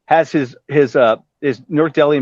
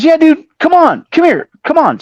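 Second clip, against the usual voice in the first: imitating Vince; 14 semitones higher, 6 dB louder than usual. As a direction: wave him in with a high, stretched rocker call. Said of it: "He goes".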